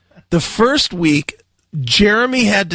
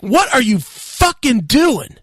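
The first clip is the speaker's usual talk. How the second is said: slower, higher imitation of a yelling manager; mock angry yelling; 6 semitones higher, slower than usual. Host imitating the angry manager cussing him out, mock yell. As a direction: replay the boss's rant, a touch heated. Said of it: "he was yelling and cussing at me".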